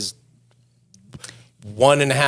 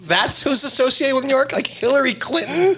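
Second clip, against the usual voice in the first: indignant; 13 semitones higher than usual. Real, not acted. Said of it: "I was, like, so mad".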